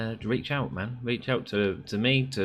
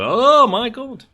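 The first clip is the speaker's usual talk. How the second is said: shocked gasp; 10 dB louder, much slower than usual. Retold or imitated. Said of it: "and people go".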